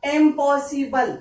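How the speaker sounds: इम्पॉसिबल said slowly, syllable by syllable; teacher drawing out इम्पॉसिबल for the class; slow syllable demo. Shown as a demonstration. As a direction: pull इम्पॉसिबल apart slowly for learners. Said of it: "जैसे मैंने लिखा यहाँ पे".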